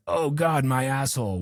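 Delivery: mock groan at the crash; mock anguish. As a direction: whine like a trader losing it all. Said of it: "they're like".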